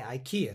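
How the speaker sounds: "IKEA" said as "aikie", stress on the KEE syllable; English stress IKEA. Shown as a demonstration. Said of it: "IKEAっていう発音になります". ("IKEA"を「アイキーア」とキーを強く発音)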